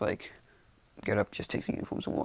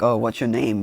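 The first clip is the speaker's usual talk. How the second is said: lightly raised, louder voice; mild mock yell; 7 dB louder than usual. Girl asking her rescuer through the wall, mild yell. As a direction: call out, only half shouting. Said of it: "yells through the wall, like".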